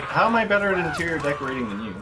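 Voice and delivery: a light lispy voice, quick and teasing. Retold or imitated. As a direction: rib your brother with a mild lisp, fast. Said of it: "lispy voice".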